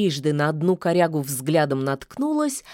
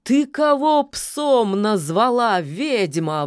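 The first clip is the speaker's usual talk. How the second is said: offended howl; 6 semitones higher, 3 dB louder, slower than usual. Acted. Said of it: "взвыл от обиды".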